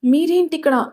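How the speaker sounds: a touch of frightened disbelief; fearful question. Acted. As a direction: ask in mild alarm. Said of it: "ఎంతో భయంగా అడిగింది".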